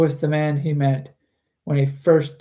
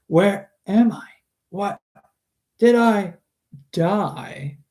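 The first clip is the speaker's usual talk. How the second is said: panicked Kraft; 5 semitones higher, slower than usual. Acted. Kraft wakes after being stabbed.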